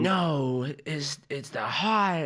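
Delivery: halting attempt at a film actor, last words stretched; Christopher Walken. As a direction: try the actor's odd slow phrasing. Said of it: "I tried to do Christopher Walken".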